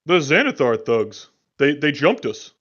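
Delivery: heated, defensive fighter; agitated survivor. Acted. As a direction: insist you were ambushed. GM voices survivors.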